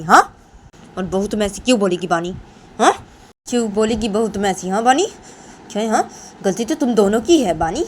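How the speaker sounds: lively, insistent telling-off with questioning hooks; stern scolding. Acted. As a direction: scold both of them, repeating each point. Mother-in-law scolds and punishes both. (दोनों को सख़्ती से डाँटना)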